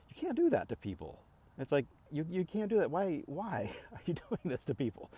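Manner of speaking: high pitched indignant protest. Retold or imitated. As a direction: plead in exasperated disbelief. Retold protest to dealer.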